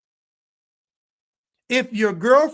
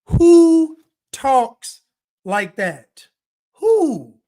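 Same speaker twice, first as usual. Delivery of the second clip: incredulous high squeal; 4 semitones higher, 7 dB louder, much slower than usual. Real, not acted. Mocking the stilted texts.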